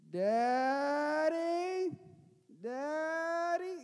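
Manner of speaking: put-on high, loud frightened little boy calling out; scared child calling. Son calling for his dad in the dark, high frightened cry. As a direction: call for Daddy like a terrified small child.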